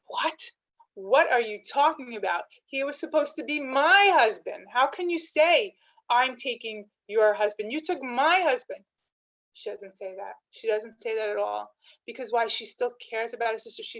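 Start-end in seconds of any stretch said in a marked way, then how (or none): 0.1-8.8 raised, louder, hurt protest; indignant protest. Pretend. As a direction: Rachel could say this, a raised indignant protest to her sister. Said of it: "Rachel could say".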